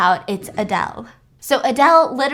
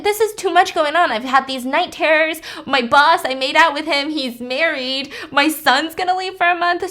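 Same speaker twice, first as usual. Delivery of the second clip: freaking out; 4 semitones higher than usual. Retold or imitated. Louise overwhelmed by everything at once, freaking out. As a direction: spill it all out in a panic. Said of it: "Louise is freaking out".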